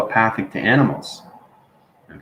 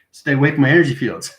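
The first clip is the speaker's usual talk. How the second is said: defensive cat; 4 semitones higher, faster than usual. Retold or imitated. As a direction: play the startled cat warning you off. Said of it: "It's like".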